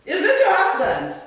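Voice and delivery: high, loud disbelief; astonished. Acted. Immigration officer learns who her husband is, loudly astonished. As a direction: exclaim it incredulously, pitch shooting up.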